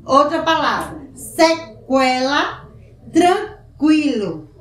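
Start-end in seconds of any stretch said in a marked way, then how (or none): 1.1-4.5 "sequela" and "tranquilo" drawn out with the u sounded as kw; slow pronunciation demo. Shown as a demonstration. Teacher models the sounded u for the class, slowly. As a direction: stretch them so the kw rings out. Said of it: "O U também é pronunciado".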